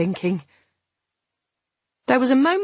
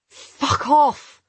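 short, sharp, louder curse; curt and angry; 8 semitones higher, 5 dB louder than usual. Acted. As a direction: snap it off angrily. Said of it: "I said shortly".

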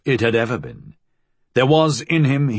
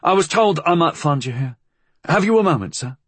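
higher-pitched, deferential inspector's voice; inspector calling in; 8 semitones higher than usual. A narrator's reading. Inspector calling in to a superior, deferentially. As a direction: politely ask for a superior's attention. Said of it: "the inspector called in".

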